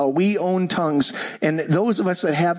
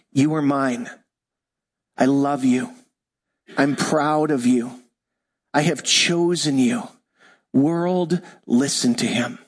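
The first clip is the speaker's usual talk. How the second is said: tender declaration; 4 semitones lower than usual. Shown as a demonstration. Pastor voicing the Father over Jesus, tender and low. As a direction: speak it gently over a beloved son.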